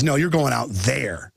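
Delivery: slow, low mock of the guard's taunt. Smug guard taunting Alex out the door, slow. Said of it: "He goes".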